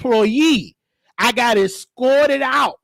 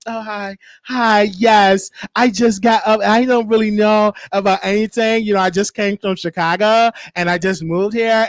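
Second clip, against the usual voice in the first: lightly put-on feminine Karen voice; a hint of dainty, polite Karen; real feminine. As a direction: do a mock-sweet, ladylike newcomer. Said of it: "my voice changed. I got real feminine".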